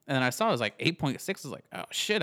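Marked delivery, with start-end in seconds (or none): 1.7-2.2 sudden high-pitched surprise; surprised exclamation. Retold or imitated. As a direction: blurt it out, surprised. Retold surprise at strong beer.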